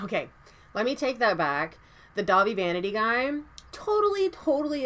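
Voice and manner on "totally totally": emphatic yes. Real, not acted. Emphatic agreement.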